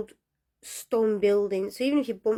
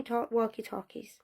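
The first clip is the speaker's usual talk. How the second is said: whispered, trailing off; hushed spooky whisper; 7 dB quieter than usual. Acted. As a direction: drop to a breathy whisper on it. Spooky aside about missing radios.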